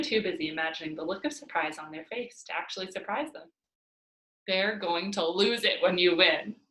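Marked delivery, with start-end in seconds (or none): 4.5-6.6 said with a smile. Acted. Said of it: "Lupe said with a smile".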